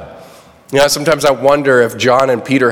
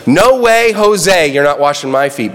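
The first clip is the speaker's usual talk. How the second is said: emphatic refusal; 2 semitones higher than usual. Retold or imitated. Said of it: "Peter's so emphatic".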